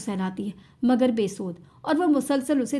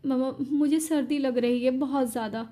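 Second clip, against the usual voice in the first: a hint of hiccuping through tears; hiccuping sobs. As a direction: answer him, lightly sobbing. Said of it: "हिचकियाँ लेते हुए कहती है".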